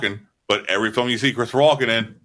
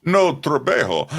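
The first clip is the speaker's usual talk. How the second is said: Christopher Walken; 5 semitones higher than usual. Acted. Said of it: "that's Mexican Christopher Walken".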